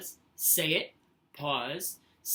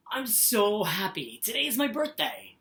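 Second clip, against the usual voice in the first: enthusiastic; 3 semitones higher, 5 dB louder than usual. Shown as a demonstration. Teacher showing the class an excited birthday sentence. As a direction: sound thrilled about the birthday. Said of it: "like, enthusiastic, having feelings about it".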